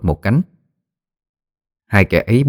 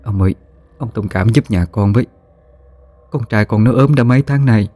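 cringing plea; 3 semitones higher than usual. Acted. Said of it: "giọng điệu khúm núm cầu xin".

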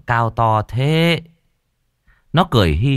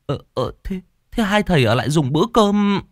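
higher, eager invitation; anxious host; 9 semitones higher than usual. Acted. Homeowner chases the departing monks, higher and eager. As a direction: hurry after them with the offer.

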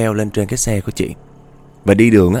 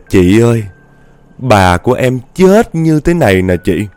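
put-on a touch louder eerie child's line, stress on "chết"; ghost girl; 4 dB louder than usual. Ghost girl slapping the rider's ear, lightly eerie. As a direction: lean on "chết" with a rising, haunting lilt.

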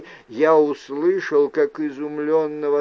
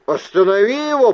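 quick, loud, raised-pitch order; urgent demand; 6 semitones higher, 6 dB louder, much faster than usual. A narrator's reading. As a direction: demand it forcefully, fast. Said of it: "потребовал я". (громкое, быстрое требование)

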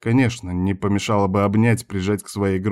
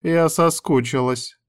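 slow, higher coquettish coo; 7 semitones higher, slower than usual. A narrator's reading. Woman telling him she missed him, cooing slowly. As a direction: draw it out sweetly, pitched up. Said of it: "проворковала Вика".

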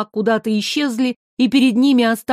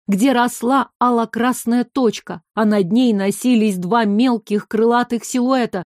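ordinary delivery

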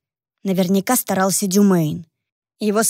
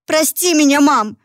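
a pleading cry, a bit louder; exclaiming; 6 semitones higher, 4 dB louder than usual. Acted. Daughter begs her mother's forgiveness, exclaiming. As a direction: beg forgiveness with a burst. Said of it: "воскликнула девушка".

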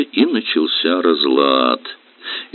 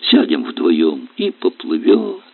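soft, slow hopeful line; father to son; tender wish; 3 dB quieter, slower than usual. Acted. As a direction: offer the dream. First take.

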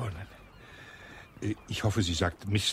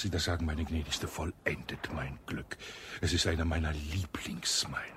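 intimate whisper; 4 semitones lower, 5 dB quieter than usual. Acted. Colonel courting in hushed tone.

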